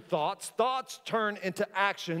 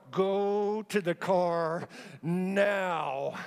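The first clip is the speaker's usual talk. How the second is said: slow, firm words through gritted teeth; slow command through clenched teeth; much slower than usual. Retold or imitated. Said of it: "I talked with my teeth like this".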